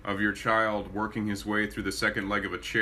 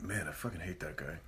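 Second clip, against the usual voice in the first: low muttered gripe; 4 semitones lower, 11 dB quieter than usual. Retold or imitated. Quoted casual gripe.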